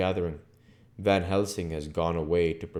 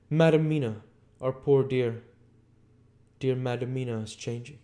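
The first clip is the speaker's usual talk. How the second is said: put-on raised, earnest old Dutch professor; a higher, urgent foreign scholar confiding; Van Helsing voice; 7 semitones higher than usual. A narrator's reading. Van Helsing confides in his friend John, earnest and raised.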